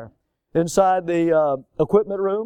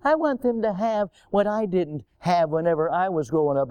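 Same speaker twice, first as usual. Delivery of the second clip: mocking repeat. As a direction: repeat the foolish saying with disdain. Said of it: "ultimate of foolishness".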